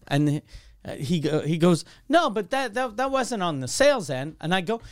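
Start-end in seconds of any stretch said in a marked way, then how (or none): 2.1-4.4 defensive salesman. Retold or imitated.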